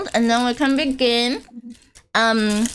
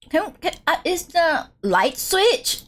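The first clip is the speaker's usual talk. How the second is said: mock confused; 6 semitones higher, slower than usual. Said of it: "Maybe I should be like".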